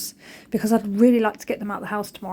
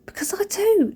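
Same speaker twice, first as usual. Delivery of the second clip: whisper; 11 semitones higher than usual. Real, not acted.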